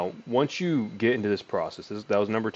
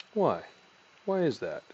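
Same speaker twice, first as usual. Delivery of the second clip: curious why; 4 semitones higher than usual. Shown as a demonstration. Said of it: "That last one was curious".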